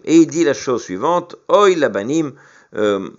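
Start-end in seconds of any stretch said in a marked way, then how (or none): 1.5-2.3 plus fort et plus aigu, comme un lion qui rugit; rugissement plaintif. Acted. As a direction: lance le Oy comme une lamentation criée. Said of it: "il rugit comme un lion". (Dieu se lamente sur ses enfants, d'une voix forte et rugissante)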